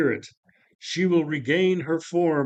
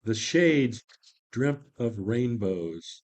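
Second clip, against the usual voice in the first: ordinary talk, nothing marked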